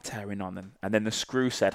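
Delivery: usual speaking voice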